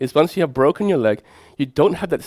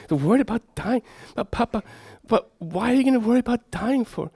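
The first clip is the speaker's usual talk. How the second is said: lightly raised pitch, gently puzzled; father to daughter; 9 semitones higher than usual. Retold or imitated. A father at bedside asks his daughter, lightly higher.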